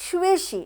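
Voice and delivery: 学习 pitched high for emphasis; stress on 学习. Shown as a demonstration. Co-teacher picking out the predicate, stressing 学习. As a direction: lift 学习 as the key word. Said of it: "学习-র উপরে জোর দিলাম".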